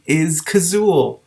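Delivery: slow, deliberate, each word placed; very slowly and carefully. A narrator's reading. Cimorene asking the lizard, slow and careful. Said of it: "very slowly and carefully".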